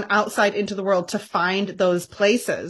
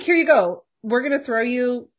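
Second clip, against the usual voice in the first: mock dismissive; 3 semitones higher than usual. Mock quote of church's attitude.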